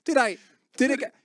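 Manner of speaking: squealing laughter as the story tumbles out; laughing. Real, not acted. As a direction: tell it while cracking up. Laughing retelling the prank.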